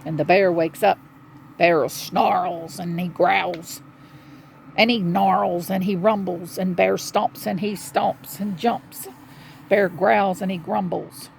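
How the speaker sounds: dramatic picture-book reading; children's story narration. A narrator's reading. Telling children the bear wakes up growling, dramatic storytelling. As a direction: tell the bear's waking with weight.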